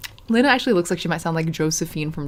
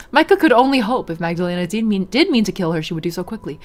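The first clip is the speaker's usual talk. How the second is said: measured read-aloud storytelling; story narration. A narrator's reading. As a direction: narrate the scene evenly.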